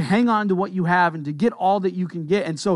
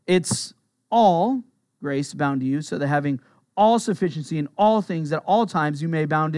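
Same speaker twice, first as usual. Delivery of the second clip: each "all" leaned on and set out; stress on all; 2 semitones lower than usual. Shown as a demonstration. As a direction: punch the word "all" every time it comes. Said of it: "that word is all".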